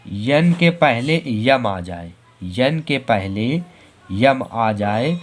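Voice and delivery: slow, deliberate rule for the class. Shown as a demonstration. Teacher drills the silent-N rule slowly. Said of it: "teacher stating the rule slowly".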